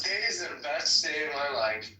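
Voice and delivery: imitating Mister Edward. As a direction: softly mimic Mister Edward's daily line. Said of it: "it's Mister Edward".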